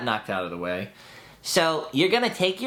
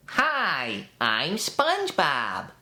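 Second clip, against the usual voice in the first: lightly voiced SpongeBob, a touch higher; demo: start high, push the words down; much slower than usual. Shown as a demonstration. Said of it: "get to a high register".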